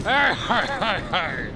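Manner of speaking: a run of growled pirate arrs, fading. Acted. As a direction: arr it like a lightly hammed pirate. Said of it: "He's a pirate!".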